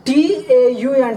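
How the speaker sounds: each letter said slowly; slow spelling. Shown as a demonstration. Teacher spelling TAUN slowly for students. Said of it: "teacher spells word letter by letter".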